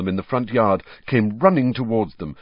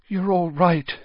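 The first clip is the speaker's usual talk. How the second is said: distracted mutter; 9 semitones higher than usual. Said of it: "Missus Weasley muttered distractedly".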